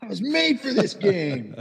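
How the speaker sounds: high, slow, swaggering brag; mocking cocky golfer. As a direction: ham up the arrogant rookie. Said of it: "Every time he rolled in a par putt".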